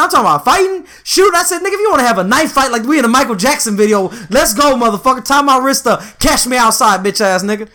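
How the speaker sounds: mock-tough dare, half laughing at himself; tough-guy threat. Coworker keeps talking, he fires back a would-be tough threat. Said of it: "in my head, it sounded a lot tougher".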